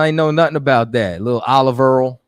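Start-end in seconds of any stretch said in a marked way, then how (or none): 1.4-2.2 OLIVE EARL, oil said with an er vowel; Brooklynese pronunciation. Shown as a demonstration. Teasing viewers who don't know Brooklynese, dialect pronunciation. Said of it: "That's Brooklynese".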